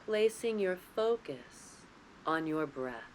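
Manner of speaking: calm, unhurried guidance with long pauses between phrases; guided meditation. Real, not acted. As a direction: lead them gently into the breath, lingering on key words. Leads guided breathing meditation.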